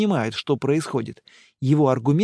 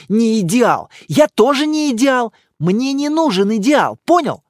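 higher, louder indignant retort; angry girlfriend; 6 semitones higher, 6 dB louder than usual. Acted. Girlfriend snapping at boyfriend, indignant and loud. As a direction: throw his words back at him.

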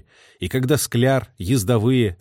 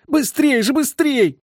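much higher, louder yelled hurry; hoarse shout; 14 semitones higher, 3 dB louder, slower than usual. A narrator's reading. Messenger yelling at the crew, hoarse shout. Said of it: "хрипло выкрикивал".

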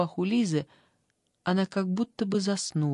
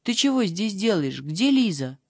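a hint of a thin, nasty little girl, a touch louder; thin spiteful girl's voice; 3 dB louder than usual. Girl in the bed needles Liza, in a lightly spiteful voice. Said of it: "тонким и вредным голосом".

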